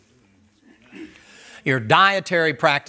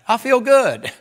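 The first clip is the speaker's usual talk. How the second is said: gloating flesh voice; 9 semitones higher, 6 dB louder, slower than usual. Retold or imitated. Flesh voice gloating, high, loud.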